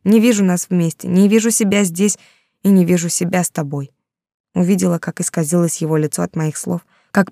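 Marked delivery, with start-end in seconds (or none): none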